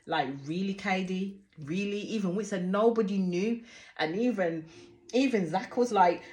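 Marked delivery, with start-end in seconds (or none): 0.0-2.0 mock disbelief. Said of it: "looked at her as if to say".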